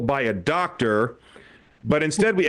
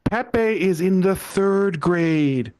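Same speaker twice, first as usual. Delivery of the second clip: exasperated correction; 5 semitones higher, slower than usual. Retold or imitated. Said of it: "I had to correct him".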